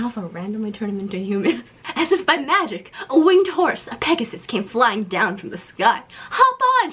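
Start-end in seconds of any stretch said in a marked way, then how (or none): 6.3-6.9 high, loud hammed-up call; mock yell. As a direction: shout it like a cheerful steed. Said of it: "she yelled".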